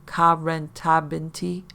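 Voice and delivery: slow, rising alien syllables; creature gibberish. Shown as a demonstration. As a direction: sound out the creature's question slowly. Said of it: "this is phonetically how it sounded".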